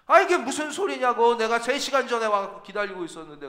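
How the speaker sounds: high, loud indignant burst at first; indignant surprise. Retold or imitated. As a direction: pastor bursts out in disbelief. 목사의 놀란 반박. (목사님이 어이없어 놀라 외침)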